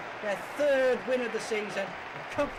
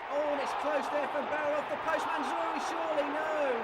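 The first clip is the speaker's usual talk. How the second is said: excited near-miss call; 7 semitones higher than usual. Real, not acted.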